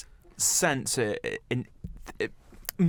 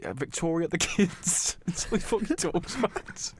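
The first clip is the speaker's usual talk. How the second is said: a hint of Beckham; David Beckham impression; 4 semitones higher, slower than usual. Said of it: "talk about L A Galaxy".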